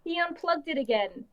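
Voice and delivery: muffled, tinny microphone; tinny mic sound. Real, not acted. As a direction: voice like talking into a can. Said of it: "you sound like you're talking into a can".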